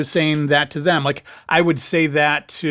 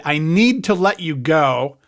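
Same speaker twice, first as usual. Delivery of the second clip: condescending; slower than usual. Shown as a demonstration. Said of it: "kind of comes off as condescending".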